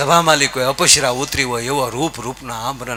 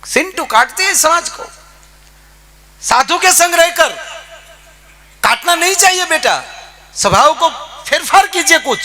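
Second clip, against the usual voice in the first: high, raised pleading-scolding voice of the saint; saint's stern Hindi scolding; 12 semitones higher, 3 dB louder than usual. Retold or imitated. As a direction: scold the dog like a gentle saint, pitched up. (સંતનો ઊંચા અવાજે ઠપકો)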